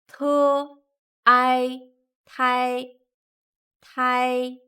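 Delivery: each sound said separately, then joined; spelling syllables. Shown as a demonstration. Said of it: "combining initials and finals".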